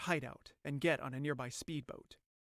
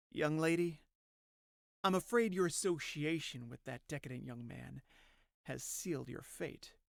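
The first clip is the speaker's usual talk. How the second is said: menacing villain; 4 dB quieter than usual. Acted. Skullman to terrified Emmy, quiet menace. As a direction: pronounce the sentence quietly, trailing down.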